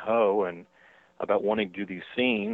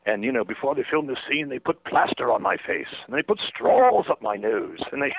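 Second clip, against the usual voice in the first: angry complaining; 6 semitones higher, 4 dB louder than usual. Retold or imitated. Rains complaining loudly in the theater, mock-angry rant. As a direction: retell his grievance, hammed-up. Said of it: "he's sitting there raising hell".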